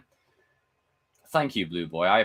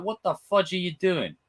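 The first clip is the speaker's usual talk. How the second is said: high, startled outburst; shocked reaction; 9 semitones higher than usual. Retold or imitated. Retelling the nurse scene to chat, shocked high yelp. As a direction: squeak out the shock. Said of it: "I'm like".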